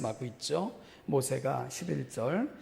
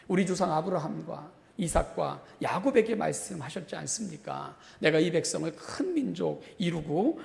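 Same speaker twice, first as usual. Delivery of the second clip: raised, insistent remonstrance; admonishing; 3 semitones higher than usual. Acted. Moses challenging God over the promise, admonishing. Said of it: "모세가 마치 훈계하듯 교훈하듯".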